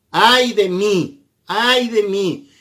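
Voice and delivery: slow, drawn-out cry of woe; mild mock lament, slowed down; lament of pain. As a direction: mourn it like a sinner before God. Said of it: "Ese ay es de dolor".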